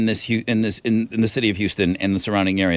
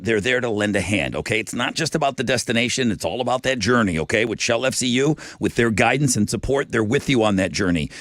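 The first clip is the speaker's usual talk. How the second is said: upbeat live sponsor read; host reading a sponsor spot on air, upbeat; radio ad read. Acted. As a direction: sell the credit union to listeners.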